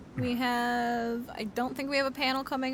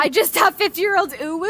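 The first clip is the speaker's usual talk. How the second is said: laughing; 6 semitones higher, 11 dB louder than usual. Real, not acted. Joking about her uwu.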